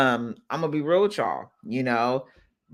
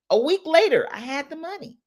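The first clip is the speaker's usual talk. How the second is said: excited reveal; 11 semitones higher than usual. Real, not acted. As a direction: announce it brightly, then drop the volume. First telling of the quick result.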